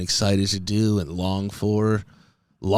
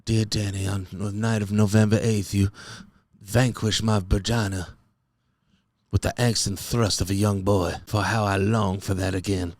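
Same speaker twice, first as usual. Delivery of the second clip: put-on old-fashioned love letter. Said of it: "I would love for them to be like".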